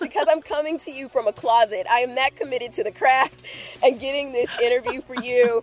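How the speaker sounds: recorded inside a closet; muffled, boxed-in sound. Real, not acted. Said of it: "why I sound a little different this week".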